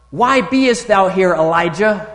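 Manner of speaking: put-on a boy confronting the drunk in the pub, loud and slow; booming prophet rebuke. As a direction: call him out like an old prophet.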